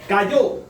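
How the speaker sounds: "Cayó" said loud, punched on the last syllable; "Cayó" with a loud, accented final O; stress on final O. Shown as a demonstration. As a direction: land hard on the ó of "Cayó". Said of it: "Tiene acento en la O".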